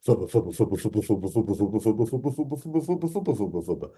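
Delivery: playful sing-song creature chatter; lightly voiced creature babble; dactyl's chatter. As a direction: chirp it like a happy flying dino. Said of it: "the reply in her mind sounded something like".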